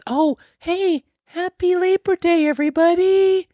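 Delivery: high chipper holiday greeting; cheery announcer. Acted. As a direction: sing it out like a TV host. Sudden bright host greeting.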